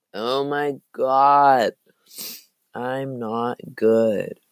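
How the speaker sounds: hoarse, slow, strained. Real, not acted. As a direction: croak it out through a sore throat. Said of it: "I can't talk at all".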